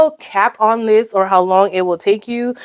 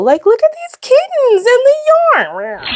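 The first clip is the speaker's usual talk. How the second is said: squeaky coo; 3 dB louder than usual. Real, not acted. Gushing over kittens page.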